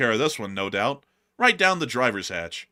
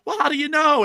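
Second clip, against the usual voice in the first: high mocking commissioner; 7 dB louder than usual. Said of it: "and he was like".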